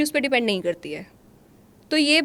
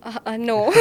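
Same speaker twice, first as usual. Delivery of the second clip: normal talking voice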